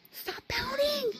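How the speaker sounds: high, slow, laughing tease; laughing while teasing. Real, not acted. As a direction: giggle through a gentle scolding. Teasing the pouting child.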